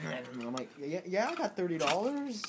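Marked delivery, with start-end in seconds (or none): 0.0-0.1 brief bird-like bleat; penguin squawk. Acted. Penguin demanding money from the man, squawking. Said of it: "And he's like". 0.8-2.4 nervous compliance. Acted. Giving in to mugging penguin.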